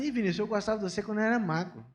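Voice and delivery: fast then slowed jab; tactless insult. Retold or imitated. Critic telling Vinícius he looks ugly now, casual and snide. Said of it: "Aí fala assim".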